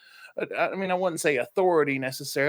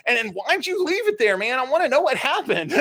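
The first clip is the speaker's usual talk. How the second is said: mock eager demand; 10 semitones higher, 4 dB louder than usual. Retold friend demanding more.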